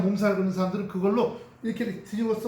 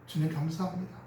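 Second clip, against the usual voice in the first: grateful prayer; 4 semitones lower, 5 dB quieter than usual. Shown as a demonstration. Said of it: "은혜가 와요".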